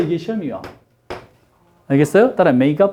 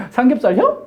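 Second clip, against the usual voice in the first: higher, joking Chungcheong question; Chungcheong dialect; 5 semitones higher than usual. Shown as a demonstration. Teacher extending the dialect joke, higher Chungcheong question. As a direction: push the "-혀" ending as a joke. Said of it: "충청도 말 굉장히 빨라요".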